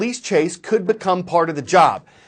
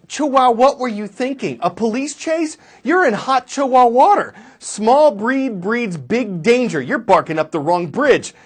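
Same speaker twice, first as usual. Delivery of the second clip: scolding owner; 4 semitones higher than usual. Retold or imitated. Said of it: "the owner will probably ask".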